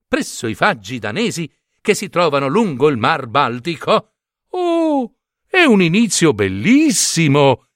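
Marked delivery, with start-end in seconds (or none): 4.5-7.7 high, thrilled gasp of delight on Oh; an excited chorus of plates; delighted exclamation. Acted. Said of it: "esclamarono tutti i piatti".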